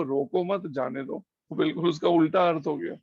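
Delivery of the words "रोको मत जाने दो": रोको मत as one phrase, जाने दो as the next; pause after मत. Shown as a demonstration. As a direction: join रोको and मत, then let जाने दो fall away. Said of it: "मत के बाद जब लग गया".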